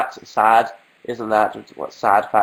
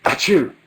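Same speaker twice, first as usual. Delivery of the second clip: fake sneeze; 4 semitones higher than usual. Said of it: "get close enough to the screen".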